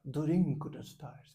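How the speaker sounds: put-on very slow English with a Japanese accent; slow, careful Japanese-accented English. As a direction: imitate a Japanese speaker, drawing each word out slowly. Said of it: "que ele é japonês, então ele dizia".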